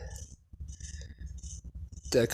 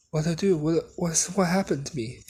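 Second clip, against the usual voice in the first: mildly panicked retelling, pitched higher; freaking out; 5 semitones higher than usual. Retold or imitated. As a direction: act out a light freak-out. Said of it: "he freaks out".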